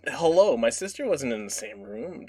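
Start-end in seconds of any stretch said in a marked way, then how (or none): 0.1-0.6 lightly voiced child, slightly higher; a hint of a kid's hello; child's voice. Storyteller repeating the mysterious hello, lightly imitated child's voice. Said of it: "in a child's voice".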